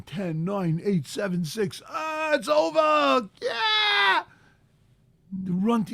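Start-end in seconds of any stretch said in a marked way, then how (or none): 1.9-4.2 high, slow mocking whoop of relief; mock cheer. Preacher mocking fasters who rush to eat, whooping. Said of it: "what I see people do".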